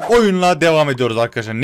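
loud, bright host announcement; announcer line. Shown as a demonstration. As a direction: sell the line like an intro. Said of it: "Neyle devam ediyoruz diye düşündüm".

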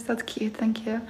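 hushed, whispered thank you; soft thanks. Real, not acted. Whispering thanks for a sweet comment on the live. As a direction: murmur it warmly to the screen.

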